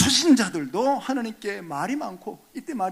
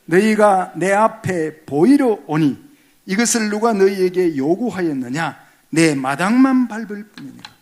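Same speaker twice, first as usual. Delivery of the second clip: congregation reading; 8 dB louder than usual. Real, not acted. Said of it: "같이 읽을까요?".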